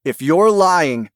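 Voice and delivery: slow, loud threat; angry warning. Acted. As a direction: warn him, loud and slow. Wife warns her husband.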